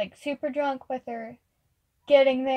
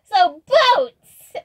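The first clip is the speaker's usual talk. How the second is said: put-on high, loud little-kid shout; little child voice; 7 semitones higher, 11 dB louder than usual. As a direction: blurt it out as an excited small child. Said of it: "a little child voice".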